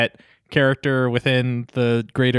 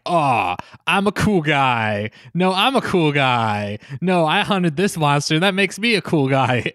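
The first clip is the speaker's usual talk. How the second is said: lightly voiced bragging hunters; mock one-upping, each topping the last; boastful monster hunters. Monster hunters trying to outdo each other below deck, mock-boastful. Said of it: "all these monster hunters ... being like".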